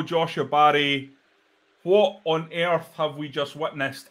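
usual speaking voice

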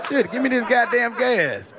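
ordinary delivery

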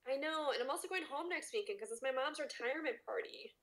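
whispered aside. Real, not acted. Cohost whispers about going home for his mom's party, whispered. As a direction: breathe it out in a whisper.

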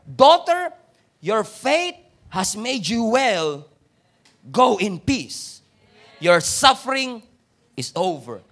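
loud, slow, drawn-out proclamation as Jesus; full-force preaching. Acted. Pastor proclaiming Jesus' blessing to the woman, loud and slow. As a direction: ring out each phrase like a blessing from the pulpit.

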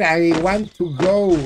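slow "I want to go" with a Spanish accent; English demo. Shown as a demonstration. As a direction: drag out "I want to go" proudly. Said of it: "para que tú veas". (diciendo "I want to go" despacio)

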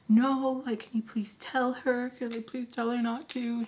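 beg, leaning hard on the first word; anxious pleading. Retold or imitated. Pleads with friend not to tell.

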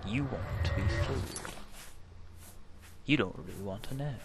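lightly done Cockney-ish Caine voice; Michael Caine impression. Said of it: "doesn't sound like a Bristol accent".

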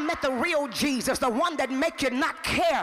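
rhythmic, insistent sermon cadence; driving preaching. Real, not acted. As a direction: preach in rolling repeated phrases, pushing onward. Preacher in driving repeated refrain.

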